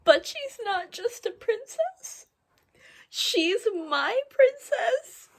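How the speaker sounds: high-pitched, weepy swooning; overwhelmed, high tearful voice; tearful gushing. Real, not acted. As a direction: cry over how sweet it is, slowing down. Tearfully gushing over the book.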